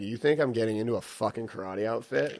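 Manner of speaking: loud, laughing disbelief at the idea; incredulous mock outrage. Son mocking his dad's karate idea, loud and incredulous. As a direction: scoff at it like it's insane. Refusing dad's jiu-jitsu suggestion.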